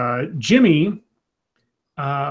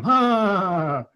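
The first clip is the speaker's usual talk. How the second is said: mocking laugh; 4 semitones higher than usual. Retelling a thug laughing at Joe, mock laughter. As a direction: act out a villain laughing at his victim. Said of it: "starts laughing at him".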